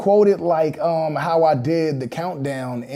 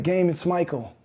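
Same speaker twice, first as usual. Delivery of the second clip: a lightly voiced Michael Jackson in a normal low register, calm; just a hint of Michael Jackson, said plainly and grounded; low-key deep Michael; 3 semitones higher than usual. Retelling the real phone call, lightly voiced plain Michael. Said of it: "low-key deep".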